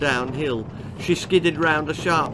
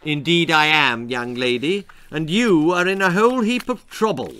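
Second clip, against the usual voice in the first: menacing bogeyman; 4 dB louder than usual. Acted. Bogeyman threatens Dee.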